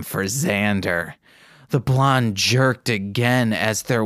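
steady read-aloud narration; calm fanfic reading; story narration. Acted. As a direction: read the story evenly, like an audiobook.

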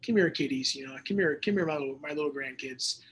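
a hint of a kindly old grandpa, softly coaxing; doting grandpa. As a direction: gently call the grandkids over. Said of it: "He's like".

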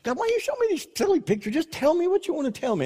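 high, rapid, squeaky griping; mock complaint to God. Worshipper chatting with the Lord about silly pictures, mock high-pitched complaint. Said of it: "You, you ever just chat with the Lord?".

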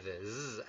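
"z" as a soft vibrating buzz; Z vibrando. Shown as a demonstration. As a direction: buzz the "z" quietly. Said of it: "La Z suena Z".

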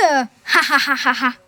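a short burst of real-sounding laughter; laughing at own joke. Acted. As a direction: laugh at your own pun. Erik laughs at his own joke.

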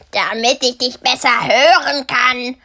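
leicht verstellte Bärenstimme, etwas lauter; Bär als Großmutter. Acted. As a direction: antworte scheinheilig als verkleideter Bär. Verkleideter Bär antwortet. (der verkleidete Bär täuscht das Mädchen)

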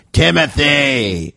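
slow, drawn-out name call; stern teacher. Retold or imitated. Teacher catching a talker, slow drawn-out name. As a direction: call the student's name slowly. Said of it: "He'd be like".

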